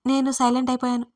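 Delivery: plain reading voice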